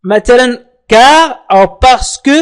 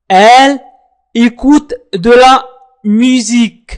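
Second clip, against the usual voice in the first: slow model phrase; much slower than usual. Shown as a demonstration. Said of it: "teacher models French phrase".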